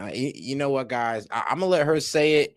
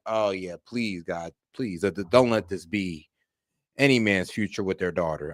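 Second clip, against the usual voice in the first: quiet pleading; 5 semitones lower, 4 dB quieter than usual. Retold or imitated. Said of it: "I'll be kind of just like".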